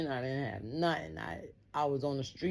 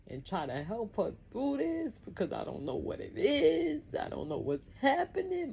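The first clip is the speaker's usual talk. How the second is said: put-on much higher child's voice; young daughter voice; 6 semitones higher than usual. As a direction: speak as the worried little girl.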